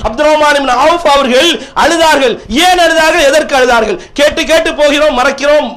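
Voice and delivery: ringing pulpit oratory; impassioned preaching. Real, not acted. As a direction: press the questions on the congregation. Preacher exhorts the congregation.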